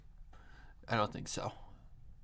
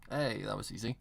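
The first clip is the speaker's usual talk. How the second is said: usual speaking voice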